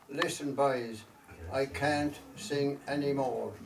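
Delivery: slow, measured storytelling verse with long pauses; unhurried recital, letting each phrase settle; poem recitation. Acted. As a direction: recite it line by line as a wistful Irish ballad-poem.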